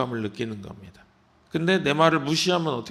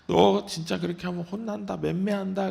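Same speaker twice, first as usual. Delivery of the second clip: higher, mock warning of a spanking; mom threatening; 6 semitones higher than usual. Mother warning a misbehaving child of a spanking, mock stern. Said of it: "엄마도 막 그러잖아요".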